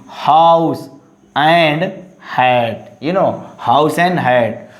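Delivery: HOUSE and HAT begun with a clear H; fully sounded H. Shown as a demonstration. Teacher models words for students, HOUSE and HAT with full H. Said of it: "pronounce H fully".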